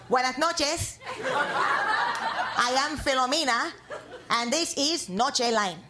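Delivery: mock a dramatic evening news intro; news host spoof.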